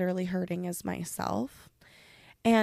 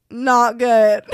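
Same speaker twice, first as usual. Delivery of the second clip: loud mock-tearful admission; about to cry; 3 semitones higher, 12 dB louder than usual. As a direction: retell it on the verge of tears, half laughing. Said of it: "And I just started crying".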